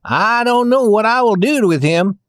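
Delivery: mild mock anger as a tin soldier; stiff barking toy soldier. A narrator's reading. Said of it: "He felt angry too".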